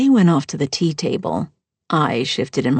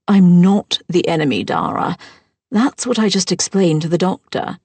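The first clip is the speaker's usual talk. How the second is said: defensive stepmother; 4 dB louder than usual. Acted. Stepmother insisting she isn't the enemy, louder and sharp.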